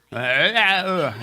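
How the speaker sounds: halting chuckle through the words; stammering laugh. Real, not acted. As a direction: laugh it off, slowly. Reacts to bad Romanian accent.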